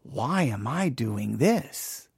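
slow, low and soft, drained of hope; weary lament. Retold or imitated. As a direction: sigh it out like you're spent. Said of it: "And you can be like".

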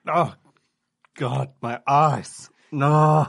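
loud, slow mock agony; hammed-up pained cry. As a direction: wail as sand stings the eyes. Sand thrown in his eyes.

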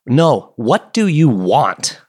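slow, flat, deliberate demand; curt bartender. Retold or imitated. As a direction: drag it out like an impatient bartender. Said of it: "He's like".

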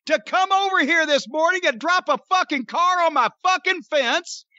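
furious, loud and high, yelling at the crowd; angry shouting. Retold or imitated. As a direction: scream it at the gawkers in full rage. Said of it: "it was much louder than what I am recreating".

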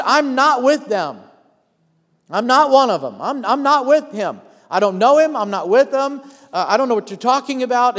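mildly acted, insistent protest; emphatic denial. Peter denying Jesus to his accusers, emphatic denial.

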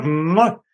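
slow smacking kiss; kiss sound. Shown as a demonstration. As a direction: plant a drawn-out kiss. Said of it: "We gotta make the kiss sound".

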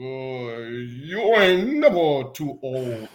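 slow, stiff robot voice. Pretend. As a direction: speak like a droning machine. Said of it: "I do robot voice".

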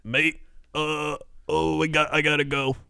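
a hint of a panicked friend quitting the stream; friend leaving stream. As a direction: mumble it off in a hurry. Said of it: "he's like".

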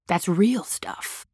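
slow whispered aside. Real, not acted. Speaker stresses real feelings to listeners, whispered. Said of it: "whispered emphasis".

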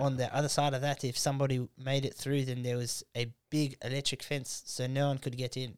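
lightly imitated South African accent; South African woman. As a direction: mimic a South African date describing home. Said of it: "seeing a South African chick".

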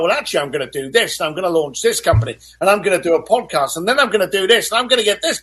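eager dreamer. Retold or imitated. Voicing an excited dreamer.

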